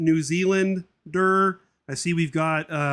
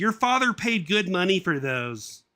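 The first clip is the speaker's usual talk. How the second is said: a bit higher, slow scolding mum voice; a hint of a fussing mother; lightly voiced nagging mum; 4 semitones higher, 3 dB louder than usual.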